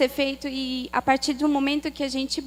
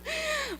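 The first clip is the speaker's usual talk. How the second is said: laugh; 7 dB quieter than usual. Real, not acted. Nervous laugh after confession.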